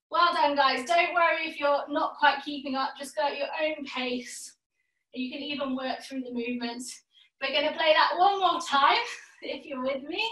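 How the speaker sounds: talking while out of breath; breathless after the exercise. Real, not acted. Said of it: "if I sound a bit out of breath here".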